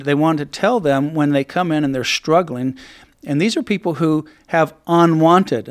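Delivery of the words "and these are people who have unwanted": unwanted leaned on, a little louder; weight the word unwanted; stress on unwanted. Real, not acted. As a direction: hit unwanted firmly. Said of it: "I emphasize the word unwanted".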